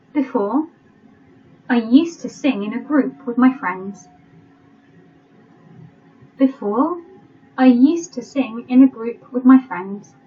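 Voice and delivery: careful reading, leaving gaps for writing; teacher's deliberate dictation voice; slow dictation. Shown as a demonstration. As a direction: dictate phrase by phrase with pauses. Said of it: "I'll read it slowly".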